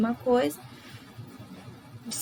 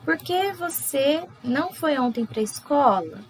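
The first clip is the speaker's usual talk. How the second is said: higher, slow questioning "Por que você não foi ontem pra escola?"; question tune; 3 semitones higher than usual. Shown as a demonstration. Teacher showing question intonation to students. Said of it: "marcar esse jeitinho que eu espero uma resposta".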